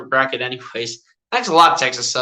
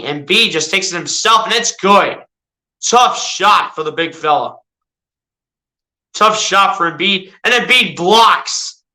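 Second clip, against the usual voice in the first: mock sportscaster calling the action; casual play-by-play of a video game; live play-by-play. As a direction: call each move as it happens, like a TV announcer.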